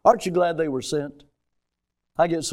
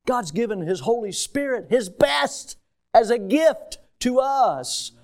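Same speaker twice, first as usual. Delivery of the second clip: higher pitch, building to a slow finish; fervent preaching; 7 semitones higher, slower than usual. Real, not acted. Preacher telling the church of God's best gift, fervent preaching. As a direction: lift it into a proclamation.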